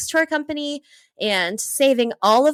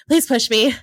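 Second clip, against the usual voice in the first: louder begging; 4 dB louder than usual. Retold or imitated. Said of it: "I remember just begging him".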